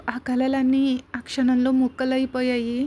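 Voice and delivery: ordinary delivery, nothing marked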